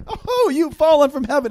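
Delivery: high, loud, light mock exclamation; wrong, unmournful reading. Shown as a demonstration. Preacher showing how not to read the verse, mock exclamation. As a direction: toss it out high and quick, without the grief. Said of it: "not like".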